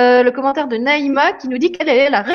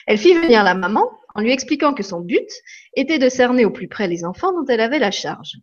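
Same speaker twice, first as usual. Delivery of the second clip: lively read-aloud with swinging tune; story reading. Acted. Reading from the book to live viewers, expressively. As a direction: read the anecdote to the audience with expressive ups and downs.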